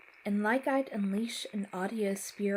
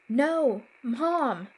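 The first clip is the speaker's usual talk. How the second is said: high, loud anguished shout; desperate yell; 5 semitones higher, 9 dB louder than usual. Acted. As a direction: scream after the fading voice. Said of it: "I yelled".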